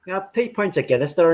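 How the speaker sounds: put-on putting on a Northern Irish accent. Pretend Irish fan ordering pints, Northern Irish accent. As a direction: order like a Belfast pub regular. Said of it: "That Northern Irish accent is wicked".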